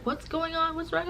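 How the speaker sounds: high-pitched worried friends; high, fretful questioning; mock alarm.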